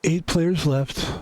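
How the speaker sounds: slow, hushed golf announcer read; golf commentator voice. Shown as a demonstration. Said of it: "I've got my golf voice on".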